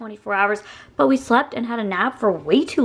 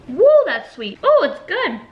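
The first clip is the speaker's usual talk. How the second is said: excited; 7 semitones higher, 4 dB louder than usual. Real, not acted. Tasting sweet aloe drink.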